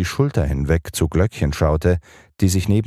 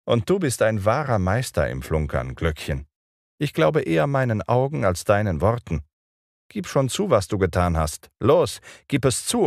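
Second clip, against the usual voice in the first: put-on higher boyish voice, demanding; scolding boy; 6 semitones higher than usual. A narrator's reading. Peter demands the fairy confess, boyish scolding.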